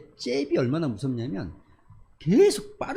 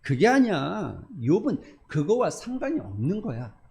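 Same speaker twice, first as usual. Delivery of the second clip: angry God; slower than usual. Acted. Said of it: "하나님이 화가 났어요".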